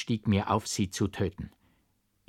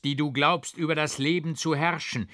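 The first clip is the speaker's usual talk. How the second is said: higher, menacing, contemptuous tirade; higher, threatening, scornful speech; bitter scorn; 8 semitones higher than usual. A narrator's reading. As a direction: crush her with cold contempt. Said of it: "im bittern Hohn".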